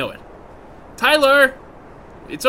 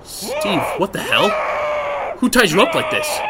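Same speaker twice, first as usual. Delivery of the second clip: shouting. Real, not acted. Calling out, finding friend tied.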